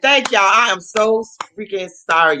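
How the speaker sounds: high-pitched, mildly gushing thanks; effusive apology. Retold or imitated. Thanking the men who helped with the car, apologetic.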